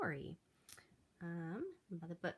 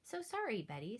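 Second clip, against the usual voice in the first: apologetic; 4 semitones higher, 3 dB louder than usual. Acted. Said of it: "said George with a smile".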